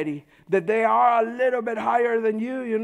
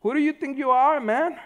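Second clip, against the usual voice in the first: challenging quote; 4 semitones higher than usual. Retold or imitated. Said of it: "I hear him say this to me".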